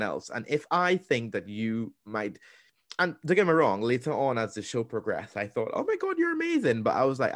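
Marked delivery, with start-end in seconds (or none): 5.7-6.8 high, delighted squeal of admiration; gushing praise. Retold or imitated. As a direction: gush like a starstruck fan. Gushing about a show contestant.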